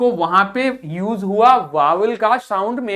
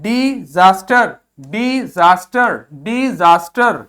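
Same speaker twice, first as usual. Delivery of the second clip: डिजास्टर said slowly and louder; loud slow model word; 5 dB louder, slower than usual. Shown as a demonstration. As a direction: drill डिजास्टर loudly for the class. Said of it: "ये क्या है?". (ज़ोर से धीमा उच्चारण)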